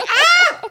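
loud startled scream breaking into a laugh; loud high shriek with laughter. Retold or imitated. Patient as her head is turned the other way, laughing shriek. Second neck crack, she cries.

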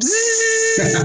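high buzzing zzz; buzzing wasp imitation. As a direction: buzz like a diving wasp. (imitação de zumbido de vespa)

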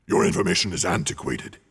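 curt, low dragon snap; snapping dragon. A narrator's reading. Dragon snapping at the hobbit's flattery. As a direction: cut him off sharply. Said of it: "he snapped".

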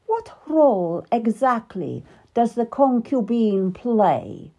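a touch of biting sarcasm; sarcastic. Acted. Queen to King Henry about Anne, mildly sarcastic. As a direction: sneer at the concubine. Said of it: "asked sarcastically".

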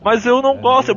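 put-on a kid pushing back; protesting child. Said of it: "é a coisa assim".

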